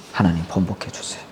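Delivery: low, soft pleading; desperate plea. Acted. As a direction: beg quietly and desperately. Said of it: "죽자 사자 통곡하면서 기도한 거예요". (낮고 간절하게 애원하는 목소리)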